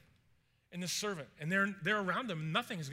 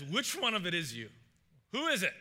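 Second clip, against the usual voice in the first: king's pointed, louder questioning; tense demand; 4 dB louder than usual. Acted. King confronting his counselors over a leak, tensely demanding. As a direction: press the room for the culprit, a touch tense. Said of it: "this is a tense conversation".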